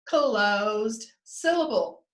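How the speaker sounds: "Closed syllable" very slow, closed held long; slow, separated "Closed syllable"; drawn-out answer. Shown as a demonstration. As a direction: lead the class in a stretched "Closed syllable". Teacher leads class chanting answer.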